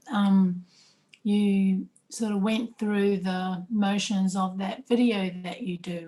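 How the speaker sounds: talking through a mouthful of nuts; mouth full. Real, not acted. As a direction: mouth full while speaking. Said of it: "Sorry, my mouth is full".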